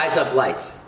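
put-on Australian accent. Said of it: "saying razor blades in Australian".

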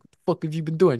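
mildly annoyed imitation of a coach; angry coach. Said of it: "He's angry".

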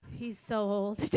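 laughing tease. Real, not acted. Teasing about someone's age, laughing.

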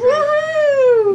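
high, loud whoop; cheer. Real, not acted. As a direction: cheer with delight.

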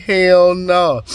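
high, loud, tickled exclamation; loud laughing disbelief; delighted hell no. Retold or imitated. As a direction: burst out amazed and amused. Reacting to a joke, laughing.

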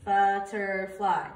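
butterfly drawn out slowly, syllable by syllable; slow syllable count. Shown as a demonstration. Teacher counting syllables for students, slow and drawn out. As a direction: stretch butterfly into its three beats. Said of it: "So the next one".

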